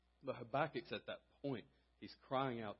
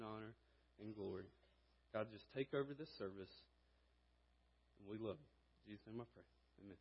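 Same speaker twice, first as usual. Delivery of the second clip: prayer. Acted. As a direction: pray it humbly to God. Pastor leads opening prayer.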